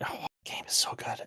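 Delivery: soft, unvoiced whisper.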